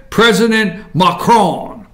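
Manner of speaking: Macron said the French way, stress on the last syllable and a nasal on-end; slow Macron with a French nasal ending. Shown as a demonstration. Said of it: "You gotta say it like that".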